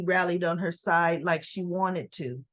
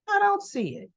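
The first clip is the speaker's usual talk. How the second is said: firm denial; 10 semitones higher than usual. Retold or imitated. Nikki firmly rebuffs Victoria.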